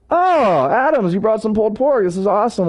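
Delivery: lightly imitated delighted greeting, starting high; mildly acted happy surprise; delighted elder. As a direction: open on a high, pleased "oh". Elder delighted by the pulled pork.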